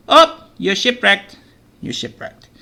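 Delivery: high, loud mock "oh" trailing to a whisper; hammed-up dismay at sinking the boat. Teacher playtesting the game, sinking the boat in mock dismay.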